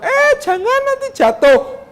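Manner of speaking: high, slow anxious cry; fearful warning. Retold or imitated. Scared parent calling to a climbing child, high and fearful. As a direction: warn a climbing child in fright. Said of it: "kita ketakutan".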